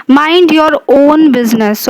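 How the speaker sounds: "own" given extra weight; stress on own. Shown as a demonstration. Teacher reading an example of emphasis, stress on own. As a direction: lean on "own" in the command. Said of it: "own is emphasized".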